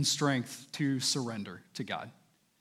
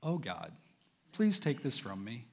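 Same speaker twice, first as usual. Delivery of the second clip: mock feeble prayer; 6 semitones lower, 8 dB quieter than usual. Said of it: "What I don't mean is".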